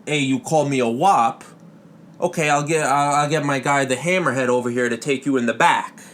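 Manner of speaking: a hint of a mob heavy threatening; loosely Italian-American tough-guy menace; Italian mobster shark. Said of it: "an Italian guy".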